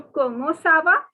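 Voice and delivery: Comment ça va with a rising question tune; rising French greeting question. Shown as a demonstration. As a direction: ask Comment ça va, lifting va.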